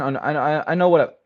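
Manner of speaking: stammering over words. Answering a question about furries, the speaker trips into stuttering. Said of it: "I'm stuttering".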